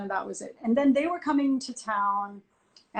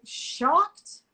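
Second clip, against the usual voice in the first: incredulous echo; 7 semitones higher, 3 dB louder than usual. Retold or imitated. Echoing his word back.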